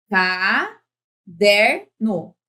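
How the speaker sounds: "Caderno" lentíssimo, com "DER" forte e esticado; sílaba por sílaba. Shown as a demonstration. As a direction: separe "Ca-der-no", destacando o "der". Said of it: "Essa é a tônica". ("Caderno" dito em sílabas bem pausadas)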